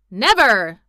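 loud, drawn, falling exclamation; cried out. A narrator's reading. General slapping his chest, loud emphatic cry. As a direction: declare it with blustering force. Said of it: "cried the general".

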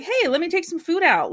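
pitching up to beg the chef; eager high ask. Retold or imitated. Alex begging the chef to let him run food, high eager voice. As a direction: voice jumps up high to plead.

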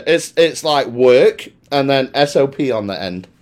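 slow, careful spelling out. Shown as a demonstration. Slowly spelling out his hometown for puzzled cohosts. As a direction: lay out each part for a confused listener. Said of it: "I'm gonna spell it for you".

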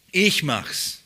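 "Ich" carries the weight, short volunteering answer; stress on ICH. Shown as a demonstration. Spirit offering himself for the task, stress on "Ich". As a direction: hit "Ich" firmly, let "mach's" follow lightly. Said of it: "Die Betonung ist auf ich".

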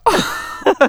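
high breathy laugh; nervous burst of laughter. Real, not acted. Laughing after yelling at the neighbour. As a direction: let the tension out in a laugh.

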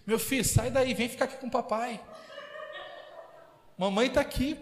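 lightly voiced coaxing parent; a touch of a mother calling her son home; imitating doting parent. Parent luring a son back home, mild mock tenderness. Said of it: "aí você fala".

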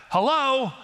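put-on high, loud little-boy hello; child's greeting. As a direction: announce yourself like a five-year-old at the door. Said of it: "he literally does this".

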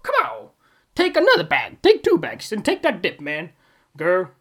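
loud, high hyped-up cheering; cheering fans. Retold or imitated. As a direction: cheer her on like a screaming fan. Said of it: "everyone was like".

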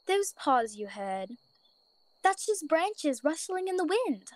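slow, soothing mother rabbit; calm her child's fear slowly; gentle bunny mother. Acted. Mother character voiced.

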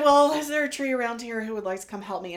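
loud, fast call to the trees. Retold or imitated. Calling out to the trees.

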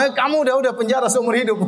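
hammed-up cranky judge taking it out on the defendant; irritated judge. Judge nagged by his wife snaps at the defendant, mock-irritated.

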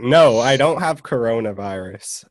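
stuffy, congested voice; nasal voice. Real, not acted. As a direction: speak through a blocked nose. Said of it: "you sound kinda nasally".

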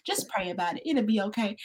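calm granny. Retold or imitated. Student imitating her grandmother's soft calm reassurance. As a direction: hush it down like a patient granny. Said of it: "she'll be like".

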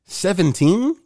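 disbelief. Real, not acted. Disbelief again.

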